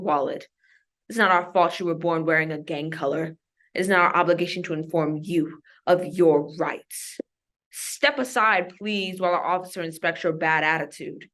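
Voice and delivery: measured, deadpan poetry recitation; dry slam-poem delivery; spoken word poem. Acted. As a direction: recite it like an airline safety notice gone wrong.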